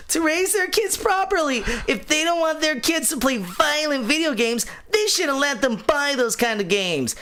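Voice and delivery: put-on high, smug little kid voice. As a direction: play an edgy seven-year-old. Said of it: "this kid sounds like he's seven".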